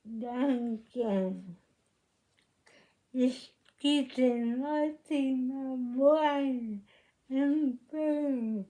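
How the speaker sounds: sick, hoarse voice, genuinely unwell; hoarse from illness. Real, not acted. Host apologising to viewers for her hoarse voice, a bit hoarse. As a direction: let the rasp of a cold show on every word. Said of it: "je suis un peu enroué, malade".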